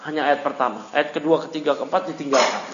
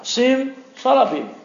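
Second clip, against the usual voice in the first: higher, slow conjurer's incantation; mock magician's spell; 8 semitones higher, slower than usual. Teacher mimicking a sorcerer's magic words, high and slow. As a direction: announce the spell like a stage magician. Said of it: "biasa diucapkan oleh tukang sihir".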